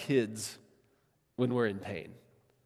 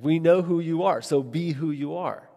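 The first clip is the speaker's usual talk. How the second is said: frustrated; 3 semitones higher than usual. Retold or imitated. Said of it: "a very frustrated, like, she's preaching back to Jesus".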